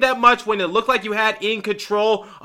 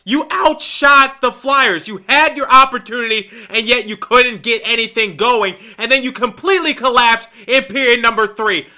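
rant. Real, not acted. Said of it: "It's time for me to rant".

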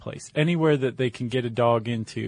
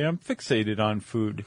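slow, lightly voiced dog's thoughts; a hint of a food-obsessed dog; 2 semitones lower than usual. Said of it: "that your dog voice?".

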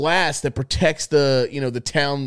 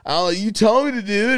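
mocking the friend; 8 semitones higher, 4 dB louder than usual. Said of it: "he's just like".

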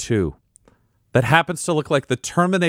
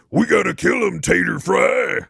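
werebear voice; 7 semitones higher than usual. Acted.

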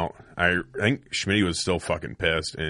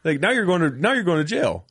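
mock angry cop; 9 semitones higher than usual. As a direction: bark it like an irate cop. Cop yelling at him.

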